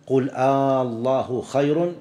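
"الله" begun with a long held "آ", as a question; interrogative long hamza. Shown as a demonstration. Teacher citing a Quran verse as example, long interrogative "آ" on "الله". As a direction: recite slowly, stretching the opening vowel of "آلله". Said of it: "تنتقل من كونها خبرية إلى كونها استفهامية".

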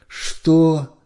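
high, loud drawn-out Что; stunned drawn-out question; astonished. A narrator's reading. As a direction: stretch it in disbelief. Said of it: "изумлённо протянул Кац".

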